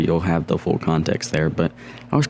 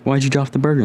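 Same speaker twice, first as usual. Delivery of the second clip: sister's puzzled question; 8 semitones higher, faster than usual. Retold or imitated. Sister questions dropped burger.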